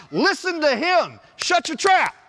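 loud, high, emphatic scolding; startling cloud voice. Acted. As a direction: order them to hush as an exasperated God. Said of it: "a voice comes out of the fog".

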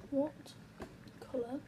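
slow, broken up word by word; typing aloud. Real, not acted. YouTuber texting a test question to the stranger, slow and halting. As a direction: speak at the speed of typing. Saying words while typing a text.

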